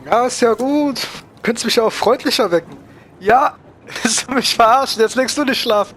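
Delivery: high, slow, mock-annoyed grumble; mock-grumpy wake-up. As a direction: play the grouchy sleeper being woken. Woken by game character, grumbles.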